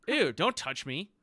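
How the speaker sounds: high, loud, drawn-out squeal of disgust; disgusted talking sword. Acted. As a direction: recoil out loud, slow and high-pitched. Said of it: "it says".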